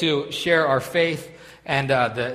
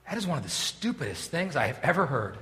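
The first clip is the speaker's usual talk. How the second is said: thinking to himself; 7 dB quieter than usual. Retold or imitated. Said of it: "and thinking to myself".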